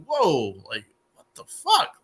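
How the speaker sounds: sudden incredulous outburst, pitch jumping up; retold shock at the waiter; stunned disbelief. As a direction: react like you can't believe the rudeness. Reaction to rude waiter.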